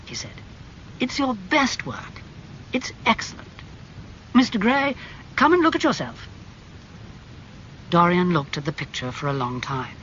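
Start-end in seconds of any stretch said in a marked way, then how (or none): 1.0-6.3 high, unhurried admiring gentleman; Lord Henry voice. A narrator's reading. Lord Henry admiring the painting to Basil, high and languid. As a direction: savour the praise like a connoisseur.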